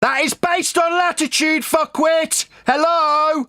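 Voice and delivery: high-pitched, exasperated insistence; angry. Real, not acted. Debater berating opponent over latitude, angry. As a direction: hammer the point home in real anger. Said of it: "Why are you so angry?".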